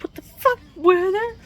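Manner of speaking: high, loud, furious shout; real furious shout at the storm; yelling at the weather. Real, not acted. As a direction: scream it up at the sky. Yelling at the blizzard.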